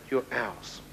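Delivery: quiet, understated demon threat; demons' menace. Retold or imitated. Demons staring at man in bed, understated quiet menace. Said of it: "seven to eight demons standing".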